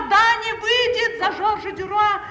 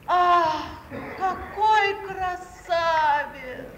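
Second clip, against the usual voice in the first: mocking admiration; much slower than usual.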